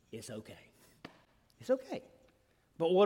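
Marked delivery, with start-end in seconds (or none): 0.1-0.6 soft breathy whisper; whispered reassurance. Shown as a demonstration. Reassuring someone the issue can wait, in a whisper. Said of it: "soothing reassurance". 1.6-2.0 gentle lilting reassurance. Shown as a demonstration. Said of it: "repeated reassurance".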